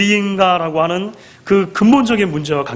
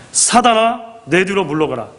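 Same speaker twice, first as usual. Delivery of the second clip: acted rebuke. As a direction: play a restrained scolding dismissal. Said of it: "뭐라고 꾸짖으셨다고 기록됩니까".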